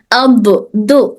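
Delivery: اب دو said slowly with an extra bouncing echo on the letter; wrong qalqalah. Shown as a demonstration. Teacher demonstrating the wrong echoing sound on the letter, slow. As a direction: show the qalqalah mistake. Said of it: "تو اس طرح سے قلقلہ کرنا یہاں پر غلط ہے".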